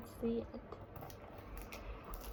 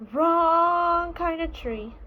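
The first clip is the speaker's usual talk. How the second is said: little bear voice; 5 semitones higher, 5 dB louder, slower than usual. Acted. Small bear repeats the complaint.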